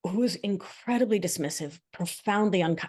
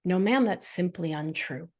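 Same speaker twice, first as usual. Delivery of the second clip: calm firm reply. Retold or imitated. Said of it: "I didn't have a racing heart".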